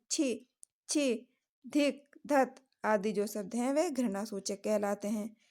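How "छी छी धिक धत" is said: disgusted. Shown as a demonstration. Examples of disgust interjections.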